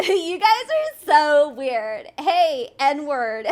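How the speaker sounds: mocking drunk livestreamer, drawn out; Sonny/imitated drunk rambling. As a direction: tease her with a slow, laughing slur. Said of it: "you're just like".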